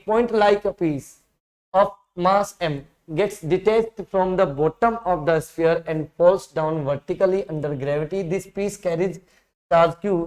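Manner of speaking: reads the problem out very slowly, word by word; slow question reading. Acted. Teacher reading the exam question to students, slow and deliberate. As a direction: dictate the question slowly to the class.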